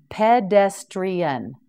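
Pedestrian said slowly, each syllable clear; slow Pedestrian down for the class; slow, careful model. Shown as a demonstration. Teacher modelling Pedestrian slowly for learners. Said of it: "teacher models the word slowly".

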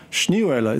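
"Schneeeule" pronounced in German, all its vowels run together; German pronunciation. Shown as a demonstration. Telling radio listeners about a hard word, German pronunciation. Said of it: "Americans have trouble 'cause there's three E's in a row".

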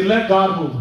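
громко, призыв повторить за проповедником. Shown as a demonstration.

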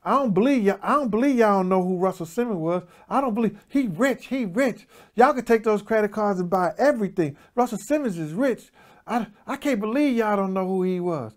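high-pitched mock effeminate chatter; put-on high voice, amazed at these strangers; womanlike voice. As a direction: imitate them with a high, womanish voice. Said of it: "with the same type of voice".

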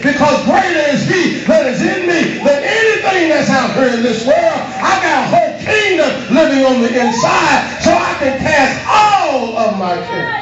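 high shouted declarations; preaching at full force. Acted. Preacher declaring his inner kingdom to the church, shouting. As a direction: proclaim it like a victory cry.

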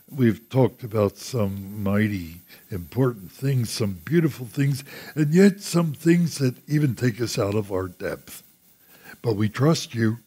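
measured, earnest spoken prayer; closing prayer. Real, not acted. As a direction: lead the congregation gently in prayer.

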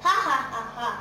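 enjoy the prank out loud; mocking laugh. Boy gloating at fooled villagers, gleeful laugh.

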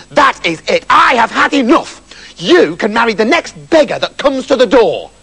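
mildly angry king laying down the law; angry father. Acted. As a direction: put your foot down as a fed-up father. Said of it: "Beryl's father was really angry with her".

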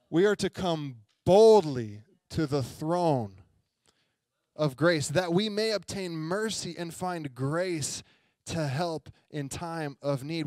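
slow, emphatic verse reading; scripture reading. Acted. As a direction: proclaim the verse word by word. Reads scripture aloud.

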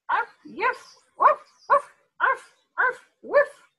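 high, loud yappy barks; barking. Acted. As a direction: bark like a small excited dog. Martha barks on phone.

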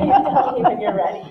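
amused, laughing while asking. Real, not acted. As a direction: laugh through it with the timekeeper. Timer not working, laughing moderator.

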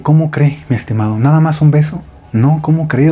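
mildly indignant, pitch jumping up; incredulous protest. Retold or imitated. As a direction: act out a disappointed "how can you?". Acted protest at getting only a kiss.

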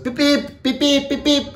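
high imitation of taxi hoots; taxi hooting. Mimicking the taxis hooting while she walks, high beeps. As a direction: beep like a honking taxi. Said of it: "ziteksi ziyarenkisha".

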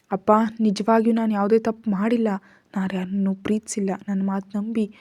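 plain reading voice

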